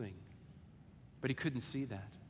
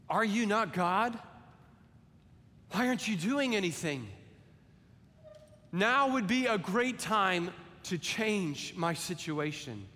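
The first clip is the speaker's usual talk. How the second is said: mild bitter challenge; 4 semitones higher than usual. Acted. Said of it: "bitterness sets in".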